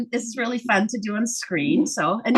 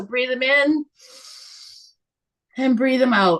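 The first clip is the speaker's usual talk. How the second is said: guided breathing cue. Shown as a demonstration. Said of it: "you're breathing it in".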